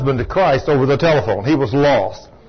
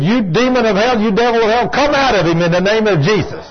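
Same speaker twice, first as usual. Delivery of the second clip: higher, emphatic casting-out command; preacher re-enacting a stern rebuke; retold exorcism command; 3 semitones higher than usual. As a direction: imitate ordering a demon out.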